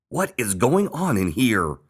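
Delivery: drawn-out loud exclamation; crying out. A narrator's reading. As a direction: Mom crying out at the mess. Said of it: "cried Mom".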